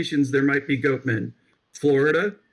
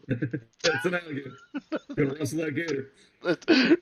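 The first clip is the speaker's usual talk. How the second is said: mock Florida yokel. Mocking Floridians.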